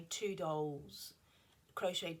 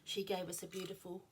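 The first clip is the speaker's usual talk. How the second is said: yawning. Real, not acted. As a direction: cut off by a yawn. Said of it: "oh, it's horrible when I do that".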